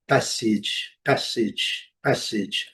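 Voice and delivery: passage said PASS-itch, final A as short i; A sounded as I. Shown as a demonstration. Teacher repeats the word for learners, A sounded as I. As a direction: drill passage with a short i in the ending. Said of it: "A com som de I".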